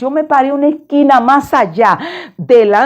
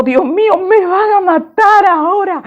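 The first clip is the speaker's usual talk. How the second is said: higher, panicked cry to God; terrified; 9 semitones higher than usual. Retold or imitated. Woman facing two buses, panicked plea to God. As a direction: sure she is about to die. Terror before crash.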